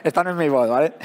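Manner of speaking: hoarse, worn-out voice; talking on a voice that's nearly gone; voice giving out. Real, not acted. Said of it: "no tengo voz".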